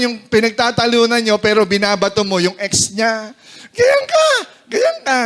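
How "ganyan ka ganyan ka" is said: very high-pitched mock nagging; mock accusation. Spouse hurling the ex back mid-argument, high mock accusation. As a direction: throw it out in a squeaky, high accusing voice.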